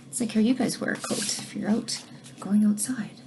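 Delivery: whispered. Real, not acted. Aside explaining the word coat.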